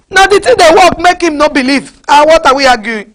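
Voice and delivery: mock them through a laugh; preacher mocking unbelievers, laughing jab; laughing mockery. Real, not acted.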